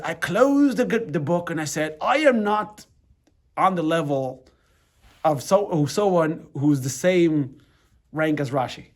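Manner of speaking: put-on a loose British accent for the square Glasgow rabbi; half-managed British accent, retelling his story. Friend's British father retelling a Talmud study, loose British accent. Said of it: "I can't even do pr-, pr-, pr-, his accent properly".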